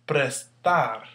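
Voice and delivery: "Prestar" split slightly, weight on "tar"; stress on last syllable. Shown as a demonstration. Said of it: "There's the stress".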